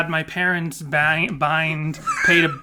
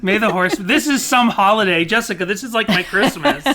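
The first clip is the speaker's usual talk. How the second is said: higher, excited put-on character voice; Denny; 5 semitones higher, 5 dB louder than usual. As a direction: gush as an eager character. Plays Denny on the show.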